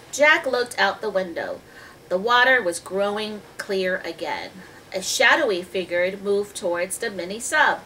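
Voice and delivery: put-on measured storybook reading to children; story narration. A narrator's reading. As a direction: read the tale clearly, stretching key words. Reads the story aloud.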